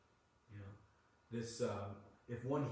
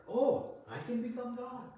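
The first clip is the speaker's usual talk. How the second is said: high mock voice of the proud ego; puffed-up ego; 8 semitones higher than usual. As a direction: play the ego gloating. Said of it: "Our ego enjoys to hear".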